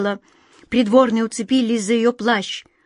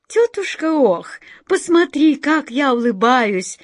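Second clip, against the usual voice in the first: put-on high, bright child calling out; a small girl showing off her smile; little girl's voice; 6 semitones higher, 4 dB louder than usual. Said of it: "без конца повторяла Глазастик".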